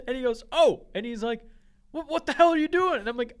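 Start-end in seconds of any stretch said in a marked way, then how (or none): 0.5-0.8 loud high exclamation, caught off guard; mock startled dad. Father sees his son appear, loud surprised outburst. 1.9-3.0 loud, high and fast scolding; retold angry dad. Father scolds his son for not answering, loud and fast.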